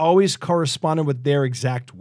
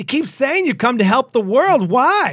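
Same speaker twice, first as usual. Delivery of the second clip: pitched-up, pressing, insistent, demanding; 8 semitones higher, 4 dB louder than usual. Reading a story aloud, voicing Betty questioning the aliens, demanding. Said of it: "Betty demanded".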